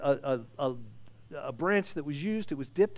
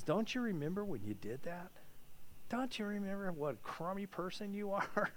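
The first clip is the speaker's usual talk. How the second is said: softer, taunting tempter voice; Satan whispering; 9 dB quieter than usual. Retold or imitated. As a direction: murmur it softly into someone's ear to needle them. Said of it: "he whispers in our ear".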